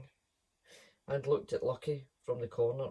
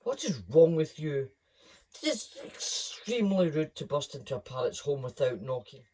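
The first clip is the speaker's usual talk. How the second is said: louder indignant parrot scolding; indignant parrot shriek; 5 dB louder than usual. Acted. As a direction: scold the intruder sharply. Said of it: "The parrot shrieked right in Lucky's ear".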